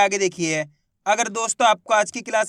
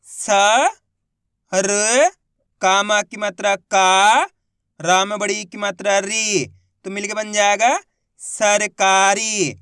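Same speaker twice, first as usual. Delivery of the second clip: syllable-by-syllable reading demo; slower than usual. Shown as a demonstration. Teacher showing students how to read सरकारी, slow and deliberate. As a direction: say each syllable apart, then stretch the whole word slowly. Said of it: "देखो किस तरीके से".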